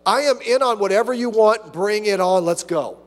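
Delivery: mildly excited prayer; eager prayer. Retold or imitated. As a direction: pray with gusto. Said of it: "are you like that".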